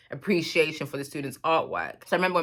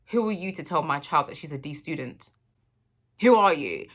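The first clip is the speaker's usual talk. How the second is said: retold angry mum. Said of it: "My mum was fuming".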